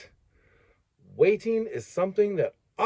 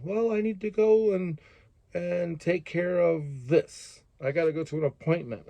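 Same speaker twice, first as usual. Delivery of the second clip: whiny excuse; 3 semitones higher than usual. Acted. Complainer answering what they need done, mock whiny. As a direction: drag out a feeble excuse, lightly mocking. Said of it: "just coming to me to complain".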